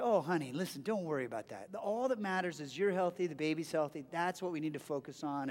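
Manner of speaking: calm her down softly and low; gentle reassurance. Retold or imitated. Husband comforting his crying wife over hospital costs, gentle reassurance.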